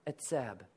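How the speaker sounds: "Etzab" as "ets-ab", low, first syllable stressed; Hebrew word etzab. Shown as a demonstration. Pastor leading the room in repeating "Etzab", slow clear model. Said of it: "Can you say etzab?".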